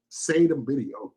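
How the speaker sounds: a reviewer repeating the friend's words slowly; slow mocking repeat. Slow, mocking echo. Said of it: "I knew better to say that".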